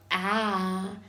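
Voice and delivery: A drawn out long; isolated vowel sound. Shown as a demonstration. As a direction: demonstrate A as one long, held vowel. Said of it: "I am going to pronounce".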